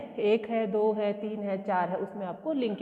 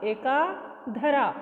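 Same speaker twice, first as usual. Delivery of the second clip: एका धरा said slowly; slow demo; much slower than usual. Shown as a demonstration. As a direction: model the phrase slowly. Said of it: "है ना, एका". (धीमा उच्चारण)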